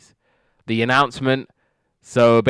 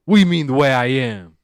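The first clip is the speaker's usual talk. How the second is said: higher, louder offended retort; mock indignation; 4 semitones higher, 7 dB louder than usual. George challenging Lionel over the secret, mock indignant. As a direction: imitate someone taking offence.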